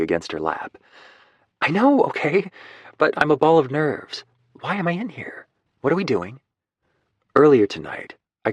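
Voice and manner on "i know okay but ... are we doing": higher, flustered woman, a ball of nerves; much higher, anxious and rushed; nervous Lucy. Acted. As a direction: blurt it out like a jittery mom. Narrator voices nervous Lucy.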